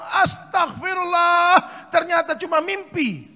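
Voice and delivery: long, drawn-out, high shout; shouting on waking. Acted. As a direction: cry out as you jolt awake. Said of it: "dia berteriak".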